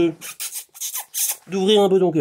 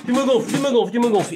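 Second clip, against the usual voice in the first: fed-up retort; 5 semitones higher than usual. Pretend. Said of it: "j'ai envie de le dire avec Castex".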